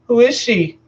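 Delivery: put-on high, loud small-child question; little girl asking. Little daughter asking her father about the body, high child voice. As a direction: ask it like a curious toddler. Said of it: "she asked again".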